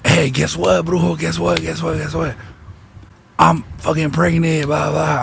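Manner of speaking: imitating a friend bursting with news, words tumbling out; retold excited announcement. Friend hits up her brujo with pregnancy news, excited.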